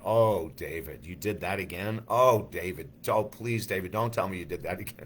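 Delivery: a hint of a mother scolding her son; lightly voiced mom, gently exasperated. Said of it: "she used to say that all the time".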